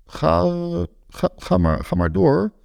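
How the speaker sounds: high, breathy, nervous begging; pleading creep. A narrator's reading. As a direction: squeak it out like a caught pervert. Voyeur tries again, pleading.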